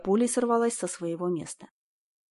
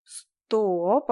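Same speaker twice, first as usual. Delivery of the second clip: usual speaking voice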